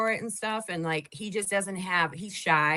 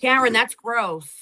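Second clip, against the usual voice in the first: disgusted; 4 semitones higher, 8 dB louder than usual. Real, not acted. Disgust at the video.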